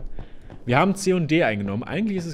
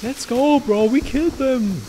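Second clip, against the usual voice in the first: gym bro; 10 semitones higher, slower than usual. Pretend. Hyped bro cheer.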